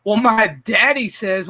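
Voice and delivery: slow, lightly voiced kid; insistent schoolkid. Imagined kid answers the teacher back, slow mock kid voice. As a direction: stretch it like a pupil insisting. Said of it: "the kid's gonna go".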